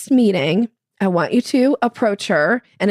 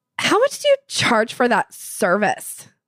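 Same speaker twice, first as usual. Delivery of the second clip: put-on skeptical tone, swooping and judgmental; 3 semitones higher than usual. Retelling a woman's question at a meeting, imitating a judgmental tone.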